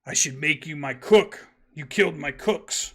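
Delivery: mild gravelly giant voice, gloating; big gravelly giant. Acted. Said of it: "in a big gravelly kind of voice".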